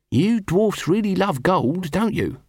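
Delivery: slow, high, knowing tone; sly insinuation. A narrator's reading. Nobby teasing the dwarf, slow and sly. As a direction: lean in slyly.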